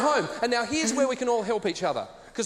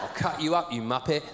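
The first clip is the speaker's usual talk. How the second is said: London hard man; 6 semitones lower than usual. Pretend. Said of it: "the London equivalent".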